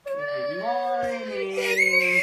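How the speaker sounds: very high, very slow squealed greeting; squealed good morning. Real, not acted. Very high drawn child greeting.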